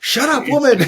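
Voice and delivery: high, loud snarling brute; snarling monster. Retold or imitated. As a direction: bark it like an angry monster. Voicing the toothy monster.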